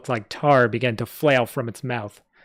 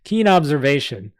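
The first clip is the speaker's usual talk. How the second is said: put-on sarcastic goblin in a New York accent, a repeat take; the goblin redoes his jab at Griffin, in a New York accent; 3 semitones higher, 4 dB louder than usual. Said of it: "my goblins from New York".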